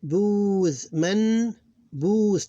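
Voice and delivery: "Booth", "Man", "Booth", each drawn out; separate syllables. Shown as a demonstration. Teacher showing two different syllables, held "Booth", "Man". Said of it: "Two different syllables".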